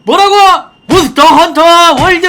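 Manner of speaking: high, loud title shout; hype shout. Acted. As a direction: scream the title like a trailer. Hyped shouting of game title.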